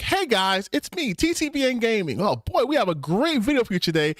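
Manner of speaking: very high-pitched, exaggerated gamer intro; put-on gaming YouTuber voice. Streamer mocking a fake voice opens a gaming video, annoyingly high voice. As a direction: greet viewers in a squeaky fake YouTuber voice. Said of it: "if I did videos and I was like".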